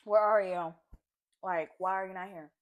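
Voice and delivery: loud, furious demand; angry shouted where-are-you; mad shouting. Retold or imitated. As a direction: yell it out in frustration. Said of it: "I was so mad".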